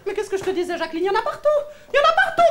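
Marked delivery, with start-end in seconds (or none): 1.9-2.4 higher exclamation. Acted. Vendor exclaims to Jacqueline, higher and louder. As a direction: pitch jumps up on partout. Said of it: "repeated higher, louder".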